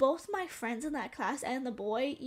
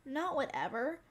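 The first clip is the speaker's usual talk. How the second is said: stern principal order. Retold or imitated. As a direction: lay down the law slowly. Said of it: "the principal's like".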